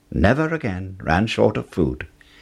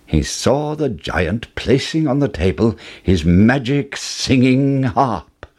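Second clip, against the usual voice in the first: usual speaking voice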